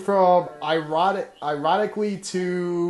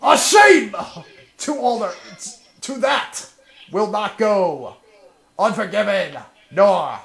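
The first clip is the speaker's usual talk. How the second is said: hammed-up grand lament; milk every word dramatically; dramatic reading; 3 semitones higher, 4 dB louder than usual. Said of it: "con guy being all dramatic".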